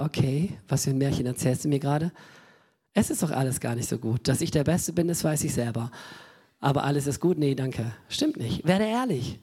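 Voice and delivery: God's dry reply. Retold or imitated. God answers the fake prayer.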